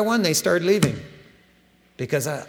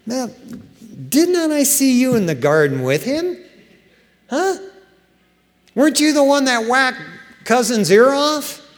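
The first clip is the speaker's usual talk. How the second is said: higher, louder, pointed accusation; accusing challenge; 8 semitones higher, 3 dB louder than usual. Retold or imitated. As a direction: corner him like a suspicious servant. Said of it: "a relative of him ... said".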